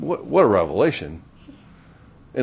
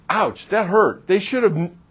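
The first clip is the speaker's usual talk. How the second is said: mock hurt whine; 7 semitones higher than usual. Voicing the hurt partner.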